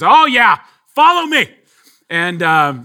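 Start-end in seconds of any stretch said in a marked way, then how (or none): 0.0-1.5 put-on high, loud old lady chirp; eager old lady voice, higher and louder; old Boston lady.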